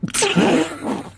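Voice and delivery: cracking up mid-take; can't stop laughing, high and breathless. Real, not acted. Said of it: "pissing myself".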